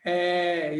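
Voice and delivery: held É, mouth a bit narrower. Shown as a demonstration. Teacher shows mouth closing further, held É. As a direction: sustain É, starting to smile. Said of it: "já vai fechando mais um pouco".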